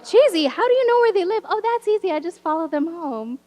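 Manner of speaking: hammed-up back and forth with a creepy kid; exaggerated incredulous exchange. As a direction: play both sides, shocked then blithely matter-of-fact. Quoting herself and Cheesy.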